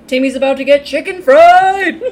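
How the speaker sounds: laughing quote. Retold or imitated. Podcaster recalling her reaction to the movie, laughing loudly. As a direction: giggle out the line in delight. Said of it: "I was like".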